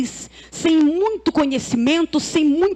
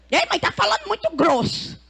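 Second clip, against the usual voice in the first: lightly voiced child's complaint, pitched up from the last line; imitating her son; 4 semitones higher than usual. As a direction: mimic a kid calling out mom. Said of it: "Tem um lá em casa que ele diz assim". (imitando de leve o filho reclamando)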